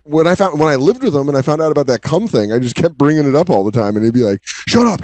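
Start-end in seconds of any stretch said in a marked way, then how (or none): 4.4-5.0 much higher protesting "shut up"; defensive shut up. Retold or imitated. Roommate denying the teasing, high defensive protest. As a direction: squeal it defensively.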